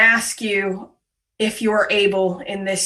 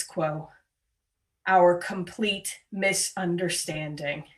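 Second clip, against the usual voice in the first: prayer. Acted. Leading the congregation in confession, solemn prayer.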